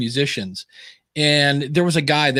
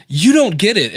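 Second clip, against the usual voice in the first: higher, louder retold insistence; imitated insistence; 4 semitones higher, 5 dB louder than usual. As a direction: act out a friend insisting. Acted mastermind exchange, insisting.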